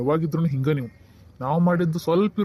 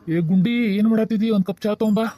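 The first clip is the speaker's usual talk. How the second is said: raised-voice summons to someone in another room; slightly raised, casual call; 4 semitones higher, 4 dB louder than usual. Acted. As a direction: call across the house for tea. Husband calls wife for tea.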